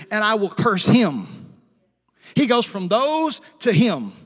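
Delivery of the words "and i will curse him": "him" punched louder at the end; stress on him. Shown as a demonstration. Preacher contrasting those and him, leaning hard on "him". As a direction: hit "him" to set it against "those". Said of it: "gets down to the singularity here".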